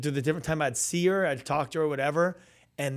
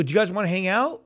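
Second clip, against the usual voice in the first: eager invitation; 6 semitones higher, 7 dB louder than usual. Retold or imitated. Acted invitation to pastor's family.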